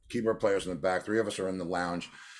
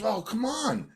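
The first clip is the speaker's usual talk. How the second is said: much higher, slow pleading voice; a hint of an indignant fan defending Pete; lightly played guitarist sticking up for Pete; mock protest; 12 semitones higher, slower than usual. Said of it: "And Godfrey goes".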